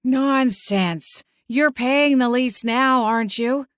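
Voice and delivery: high, insistent dismissal; brusque aunt. A narrator's reading. Aunt brushing off the barman.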